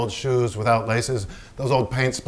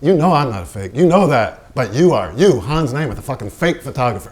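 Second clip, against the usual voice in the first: louder accusing jabs; heated accusation; 5 dB louder than usual. Acted. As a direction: hurl the insult at him. Quarrel between painter and photographer.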